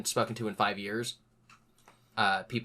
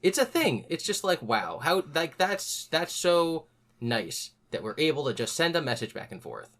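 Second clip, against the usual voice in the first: sarcastic sweetness; 5 semitones higher than usual. Real, not acted. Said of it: "You're holding in a laugh".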